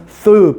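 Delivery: 쓰 as English th, tongue between teeth; lisped th on 쓰; th sound. Shown as a demonstration. Teacher demonstrating the TH letters to students, th sound. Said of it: "번데기 발음이라고 하지".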